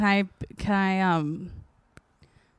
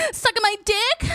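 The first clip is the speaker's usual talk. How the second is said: sultry woman; 4 dB louder than usual. Retold or imitated. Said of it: "this woman being like".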